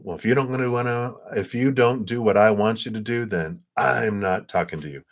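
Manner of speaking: lightly acted huffy ultimatum; mock rejection. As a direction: act out giving someone the cold shoulder. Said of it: "which is rejection".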